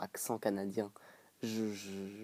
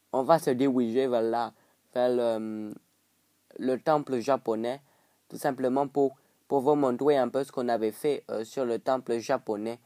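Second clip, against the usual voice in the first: mock African French, r softened to w; rough African-accent imitation; imitated African accent. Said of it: "Donc là, c'est l'accent africain".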